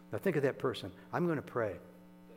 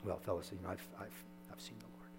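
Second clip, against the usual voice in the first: hushed, hesitant telling to the disciples; meek telling; 4 semitones lower, 12 dB quieter, faster than usual. Shown as a demonstration. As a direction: say it small and unsure, almost to yourself. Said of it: "what would the tone of voice be".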